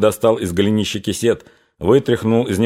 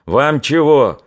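higher-pitched, raised, irritated voice; angry nasal cry; 6 semitones higher, 4 dB louder than usual. A narrator's reading. Stooped lead soldier rounding on Cossacks, angry nasal cry. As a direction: complain angrily in a nasal voice. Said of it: "закричал злым гундосым голосом".

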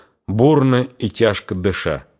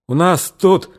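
put-on hesitant young sister; 7 semitones higher, slower than usual. A narrator's reading. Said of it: "Дуняшка замолчала".

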